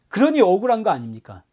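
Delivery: ordinary talk, nothing marked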